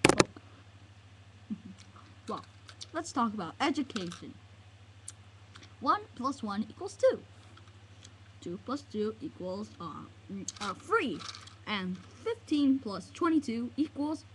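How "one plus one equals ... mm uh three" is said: measured sum with a rising end; mock lesson. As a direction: recite the sum evenly, lifting at the end. First take of mock lesson.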